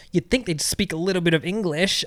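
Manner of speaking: mock Canadian accent grumble; lightly mimicked Canadian accent; put-on Canadian accent. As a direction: imitate a complaining Canadian tourist's accent. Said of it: "put the accent on while I talk".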